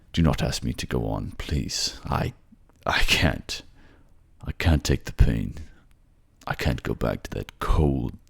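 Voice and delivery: a defeated man begging to be let die; grieving king. Acted. Alistair pleads with Ivan to let him die, broken.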